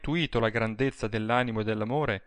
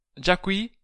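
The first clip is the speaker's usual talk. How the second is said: high, pleased woman's question; a glad little question, pitched high; high-voiced happy greeting; pleased and hushed; 8 semitones higher than usual. A narrator's reading. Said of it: "disse piano, contenta".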